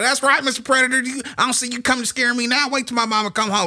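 high, loud comic bravado; hammed-up kid boasting with backup coming; empowered taunting. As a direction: crow a cocky challenge at a monster. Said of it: "oh, I got so empowered".

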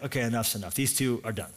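low, understated voice of God; God passing judgment. Retold or imitated. God gives his verdict on the couple, low and final. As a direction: drop low and close the matter.

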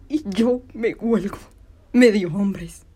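very loud, scornful stage shout; furious, contemptuous outburst; defiant taunt. Acted. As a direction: throw it in their faces at full voice. Climax of her taunting tirade.

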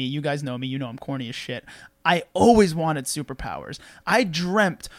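usual speaking voice

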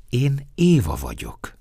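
high, slow, sweet introduction; woman's kindly voice, unhurried. Acted. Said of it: "felelte kedvesen".

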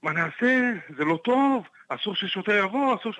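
mock-panic, words tumbling out; woman panicking in the car about the cop, half-shouted; panicked yelling. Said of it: "והיא מתחילה לצעוק לי באוטו".

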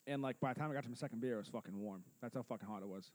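talking while chewing gum; words round a wad of gum. Real, not acted. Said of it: "Are you chewing gum on a fucking podcast?".

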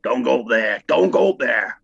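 light mock Cornish yokel warning; a hint of a put-on Cornish accent, half-hearted. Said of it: "I don't know why I'm doing a Cornish accent".

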